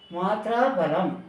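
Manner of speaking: மாத்ரா பலம் said slowly as two separate words; words held apart. Shown as a demonstration. Teacher showing how to split the mantra, words held apart. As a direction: hold மாத்ரா a little, then give பலம் on its own. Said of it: "தனித்தனியாக அப்படி கொஞ்சம் பிடிச்சி சொல்லணும்".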